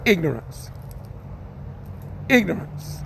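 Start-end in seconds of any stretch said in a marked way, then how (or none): 0.0-0.7 dramatic title. Shown as a demonstration. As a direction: announce ignorance in a deep, ominous tone. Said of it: "I'm gonna do one called".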